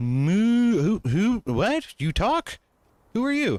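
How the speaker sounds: very high-pitched talking cow voice, long moo. Voicing a cow that a player has just spoken to: talking cow voice. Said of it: "He says".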